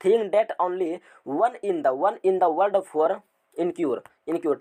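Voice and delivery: reads the definition very slowly, word by word; slow reading. Shown as a demonstration. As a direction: read it out slowly for notes. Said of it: "देखिए यहाँ क्या बोल रहा है". (धीरे-धीरे पढ़कर लिखवाना)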